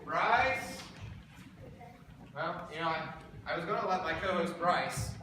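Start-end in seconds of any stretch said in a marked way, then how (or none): 0.0-0.8 questioning call, slightly raised. Acted. Host calls for absent co-host Bryce, calling out. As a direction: call out for a missing partner.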